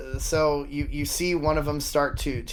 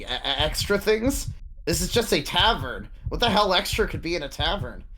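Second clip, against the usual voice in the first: nervous stutter; 5 semitones higher than usual. Acted. GM voices stuttering tavern guard.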